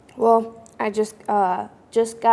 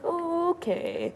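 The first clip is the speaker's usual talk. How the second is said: caught off guard; 8 semitones higher, 7 dB quieter, much slower than usual. Retold or imitated. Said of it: "And I was like".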